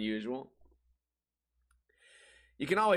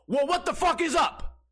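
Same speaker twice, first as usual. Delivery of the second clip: high-pitched, hammed-up outrage; indignant outburst; 13 semitones higher, 4 dB louder than usual. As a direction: confront them loudly, voice shooting up. Acts out seat confrontation.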